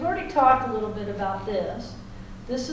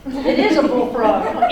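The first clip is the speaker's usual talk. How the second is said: laughing, louder and slower; 7 dB louder, slower than usual. Real, not acted. Teacher answering student's bullfrog joke, laughing. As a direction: laugh it out while agreeing. Joking with student about frog.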